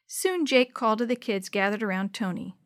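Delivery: usual speaking voice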